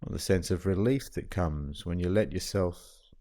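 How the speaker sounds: calm, even meditation guide with long pauses; guided meditation. Acted. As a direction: settle the listener gently, leaving long silences between phrases.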